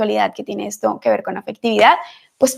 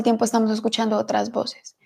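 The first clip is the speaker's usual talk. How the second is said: soft unvoiced whisper; 2 semitones lower, 8 dB quieter than usual. Real, not acted. Preacher confiding to her listeners, in a whisper. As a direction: lean in and breathe the words. Intimate sermon aside.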